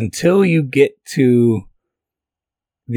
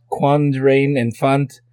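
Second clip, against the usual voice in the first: French read slowly with a German accent; slow, stiff French in a German accent; 3 semitones higher, slower than usual. Real, not acted. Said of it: "Are you trying to speak French like you're German?".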